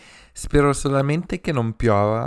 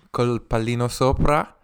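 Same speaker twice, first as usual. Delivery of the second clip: ordinary talk, nothing marked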